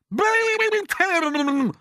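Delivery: high, loud, drawn-out cry; aunt egging her sister on. Acted. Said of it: "cried Aunt Sponge".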